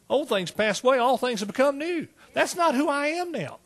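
high, swooping preacher's cadence; impassioned preaching. Real, not acted. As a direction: drive each testimony line home to the congregation. Impassioned preaching about being changed.

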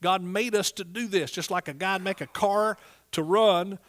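ordinary talk

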